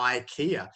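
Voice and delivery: IKEA opened with a long "eye" sound; English pronunciation. Shown as a demonstration. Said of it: "strangeness of the pronunciation in English".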